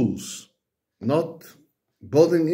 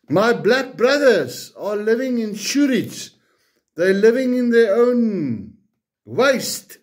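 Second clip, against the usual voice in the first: raised, heated ranting at the government; angry rant; 3 semitones higher than usual. Real, not acted. Fed-up taxpayer ranting at the government, heated and raised. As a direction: let the anger boil over, pushing higher.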